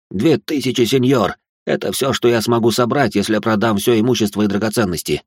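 лёгкая мольба, чуть выше; сдержанно взмолись о пощаде. Acted. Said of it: "взмолился". (иудей торгуется за свою жизнь, слегка умоляюще)

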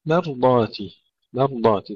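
مرضاتي with thick ر after thin م; heavy ra, light mim. Shown as a demonstration. Teacher modelling for students, heavy ra in مرضاتي. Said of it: "تفخيم الراء وترقيق الميم".

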